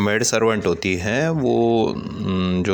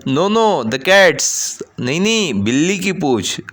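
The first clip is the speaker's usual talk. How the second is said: put-on little girl; 7 semitones higher, 4 dB louder, slower than usual. Girl corrects uncle.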